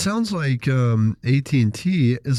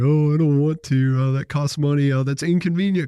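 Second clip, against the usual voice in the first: higher-pitched mimicked objections; mock complaining; 4 semitones higher than usual. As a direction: imitate reluctant people making excuses. Mimics clients' objections to freezing.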